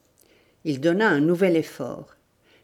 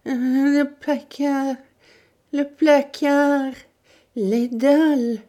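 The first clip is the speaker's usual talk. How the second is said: high, very slow, strained words; terrified stammer; 9 semitones higher, 4 dB louder, much slower than usual. Acted. Tortured old woman, face convulsed with terror, stammering. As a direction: force out each word through terror. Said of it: "réussit à bégayer".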